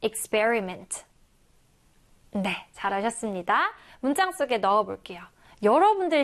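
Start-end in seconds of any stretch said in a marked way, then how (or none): 0.0-1.0 slow, careful model word for learners; teacher repeating experiment slowly so students can copy. Shown as a demonstration. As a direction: stretch out experiment syllable by syllable for the class. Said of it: "한 번 더".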